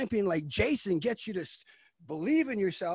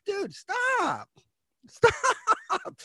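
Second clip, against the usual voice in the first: laughing stop; much slower than usual. Real, not acted. Laughing shout at self.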